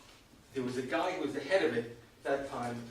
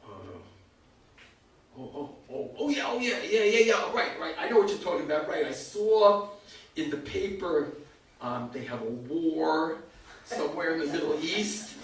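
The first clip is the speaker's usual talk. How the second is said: clueless stalling. Retold or imitated. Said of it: "And I'm like".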